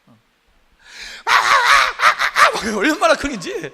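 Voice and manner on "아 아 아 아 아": high, loud drawn-out fan screams; imitating fan screams. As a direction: scream like a teen at a concert, mock. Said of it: "막 소리를 고래고래 지르면서".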